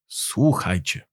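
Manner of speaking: slow, low, softened call to listen; solemn call to attention. A narrator's reading. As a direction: announce it gravely, taking your time. Repeated after clearing his throat.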